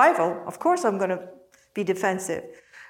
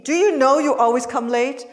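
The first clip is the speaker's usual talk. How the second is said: louder, accusing question; admonishing voice; 4 semitones higher, 4 dB louder than usual. Shown as a demonstration. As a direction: scold them. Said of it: "that's a admonishing voice".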